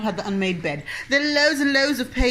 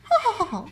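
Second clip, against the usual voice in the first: polite witch laugh; 11 semitones higher than usual. Shown as a demonstration. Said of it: "This is my polite Wicked Witch laugh".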